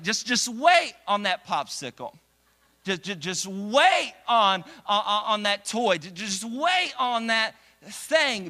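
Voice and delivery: drawn-out pleading wait, wait; pleading parent. Retold or imitated. Parent pleading with a toddler to wait, slow and drawn out. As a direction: stretch out the just wait like a tired parent.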